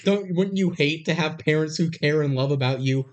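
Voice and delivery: high, sarcastic mock of a spoiled teen; hammed-up whiny teen voice on a call to Brad; mocking sarcasm. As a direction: lay the sarcasm on thick, slowing on the jab. Mocking Jamie's one-sided call.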